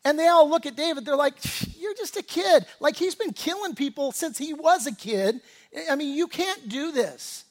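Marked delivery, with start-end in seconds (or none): 1.8-7.5 mock scoffing soldiers. Soldiers doubting young David.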